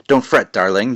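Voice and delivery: a hint of a soothing, sinister witch; creepy witch voice. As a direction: fake comfort from a witch. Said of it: "Creepy voice, isn't it?".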